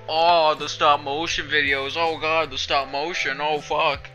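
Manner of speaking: exaggerated dismayed groan; mock panic. Mock panicked self-quote about videos.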